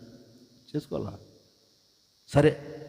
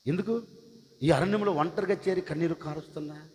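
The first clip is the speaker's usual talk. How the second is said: high, rising, ever louder pleading questions; pleading voice of God; 10 semitones higher, 5 dB louder than usual. Acted. God asking weeping Hagar why she fled, rising plea. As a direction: climb higher with each why.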